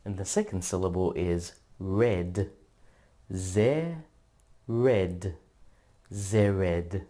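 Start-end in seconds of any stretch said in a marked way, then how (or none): 3.4-5.4 Da and zer apart with a pause, Da pitched up; split into syllables. Shown as a demonstration. Teacher sounding out Dazer syllable by syllable. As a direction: sound out each half. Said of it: "The first syllable is ze".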